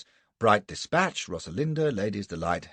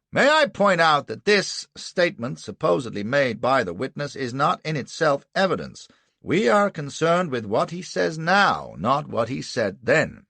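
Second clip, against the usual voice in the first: much higher, louder indignant lawyer voice; defence counsel objecting; 8 semitones higher, 6 dB louder than usual. Acted. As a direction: rise up in righteous protest to the court. Anderson objects.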